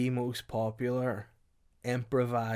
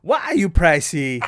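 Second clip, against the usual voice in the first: shouting; 4 semitones higher, 8 dB louder than usual. Acted. Shouted reply in character.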